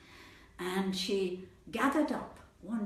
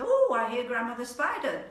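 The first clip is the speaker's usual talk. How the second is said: lifted, louder little animal voice; 5 semitones higher, 8 dB louder than usual. Acted. Small animal greets returning Grandmother Spider, little voice. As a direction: pipe up as a small creature. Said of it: "A little voice".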